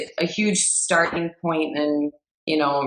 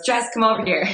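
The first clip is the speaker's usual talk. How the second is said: lightly voiced Italian-American East Coast dad, pitched higher; imitated East Coast accent; 5 semitones higher, faster than usual. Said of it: "strong Italian guy, East Coast accent".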